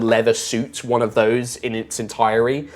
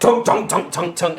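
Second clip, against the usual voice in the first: rhythmic spoken clunks, pitched up; clanking footsteps imitated; 5 semitones higher than usual. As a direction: mimic heavy armour clomping over. Imitates the suited figure's clanking steps.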